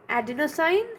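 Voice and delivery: very slow, broken into separate parts; slow dictation. Real, not acted. Teacher writing out a term for students, slow dictation. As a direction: dictate the term piece by piece with long pauses.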